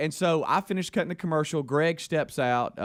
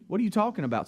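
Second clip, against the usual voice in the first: a startled, higher-pitched what; alarmed disbelief; 8 semitones higher, much faster than usual. Retold or imitated. Speaker retells his shock at the police call, pitch leaping up.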